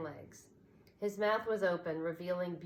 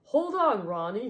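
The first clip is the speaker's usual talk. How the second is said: much louder, higher call; shouting; 4 semitones higher, 10 dB louder than usual. A narrator's reading. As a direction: shout to the rescue. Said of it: "he shouted".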